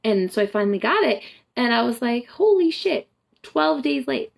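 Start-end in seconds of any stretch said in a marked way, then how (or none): 2.3-4.3 shocked exclaim. Retold or imitated. Retelling her shock at a late period, high exclaim. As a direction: blurt it out in disbelief.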